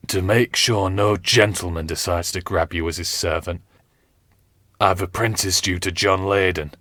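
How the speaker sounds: gather strength and speak firmly; wounded captain. Acted. Captain Smith telling his page and Richard, lightly voiced weary firmness.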